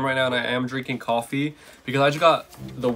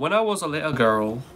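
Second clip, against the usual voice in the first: attempted British accent; 3 semitones higher than usual. Shown as a demonstration. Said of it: "I can't even talk in British".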